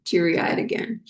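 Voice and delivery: fighting tears with a little laugh; teary-eyed. Real, not acted. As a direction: voice thick with held-back tears. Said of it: "I'm gonna start getting, teary-eyed".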